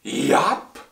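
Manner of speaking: high, loud single yelp; shouted. Acted. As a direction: blurt it out like a small boy. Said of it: "the lad cleared his throat and shouted".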